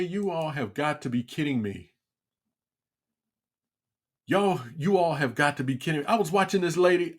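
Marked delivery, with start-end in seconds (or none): 0.0-6.1 disbelieving aside. Retold or imitated. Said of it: "I say".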